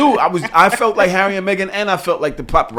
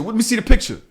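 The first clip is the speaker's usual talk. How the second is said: higher, insistent request; mildly raised, challenging demand; retold demand; 6 semitones higher than usual. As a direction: act out pressing the driver for proof. Retells first demand to driver.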